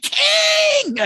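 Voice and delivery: high ringing call across a room. Retold or imitated. Adults spotting their old teacher, yelling his name. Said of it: "be like".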